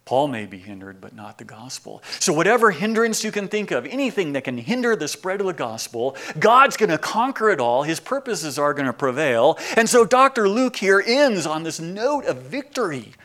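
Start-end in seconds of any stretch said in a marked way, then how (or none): 2.2-13.1 louder, higher, ringing out; full-force preaching climax; triumphant preaching. Acted. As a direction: proclaim the victory to the hall.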